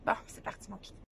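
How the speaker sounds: groggy morning rasp. Real, not acted. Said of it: "J'ai encore ma voix du matin".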